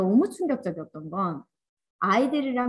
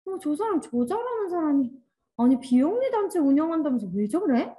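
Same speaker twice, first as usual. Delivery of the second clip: mock onlooker's grumbling, pitched higher; puzzled disapproval; 5 semitones higher than usual. Onlooker wondering about a charity leader who plays, puzzled disapproval. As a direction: play a baffled, judging bystander. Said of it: "그럼 우리 어떤 생각 들어요".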